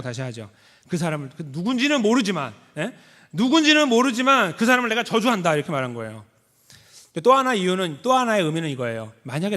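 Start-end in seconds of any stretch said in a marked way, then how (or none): 3.3-5.5 loud, higher vehement curse; loud mock oath of desperation; cursing. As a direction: spit out the curse to cut all ties. Peter cursing, acted out.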